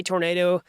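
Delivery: tornado with a long "ay"; tornado, middle syllable like "nay"; American tor-NAY-do. Shown as a demonstration. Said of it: "'cause I'm from the United States".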